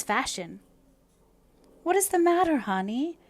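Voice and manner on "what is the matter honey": high, louder, caring friend; Phil concerned. A narrator's reading. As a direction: call out to comfort her. Phil enters, sees Anne crying.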